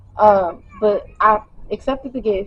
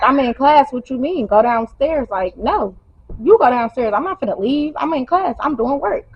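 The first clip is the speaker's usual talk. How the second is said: heated retort; 4 semitones higher than usual. Retold or imitated. Arguing back at boyfriend.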